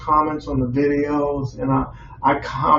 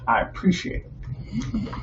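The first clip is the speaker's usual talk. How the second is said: whispered; 6 semitones higher, 7 dB quieter, slower than usual. Real, not acted. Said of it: "whispered repeat".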